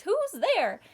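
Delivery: mouse voice. Acted. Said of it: "Mouse cries".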